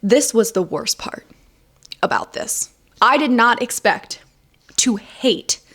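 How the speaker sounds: slow, halting dramatic confession; milk the pauses for drama; mock dramatic. Writer confessing the worst part of the challenge, dramatically. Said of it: "permit me a moment of drama".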